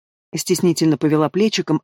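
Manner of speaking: plain reading voice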